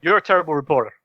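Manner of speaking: lightly voiced Trump insult; a hint of Trump scolding a reporter; mild Trump jab at a reporter; Donald Trump impression. Shown as a demonstration. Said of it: "attempt to do it again now".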